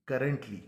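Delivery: करंटली with the two r's pulled apart; stretched. Shown as a demonstration. Teacher stretching out करंटली for students. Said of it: "खींच के".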